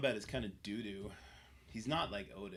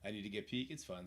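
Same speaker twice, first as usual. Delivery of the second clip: normal talking voice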